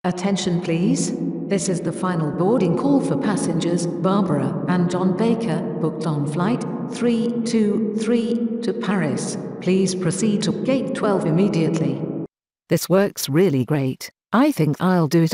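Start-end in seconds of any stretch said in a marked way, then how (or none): 0.0-12.0 echoing gate announcement with gong; airport announcement. Shown as a demonstration. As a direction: call passengers over a terminal PA. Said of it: "I will add a gong to my announcement".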